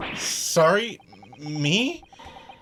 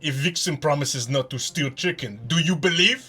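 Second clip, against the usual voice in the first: put-on Russian accent. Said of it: "my Russian accent is very rusty".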